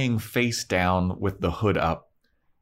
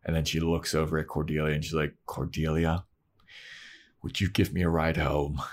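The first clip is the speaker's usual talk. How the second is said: huffy Buffy; 4 semitones lower, 5 dB quieter than usual. Retold or imitated. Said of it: "turns around in a huff".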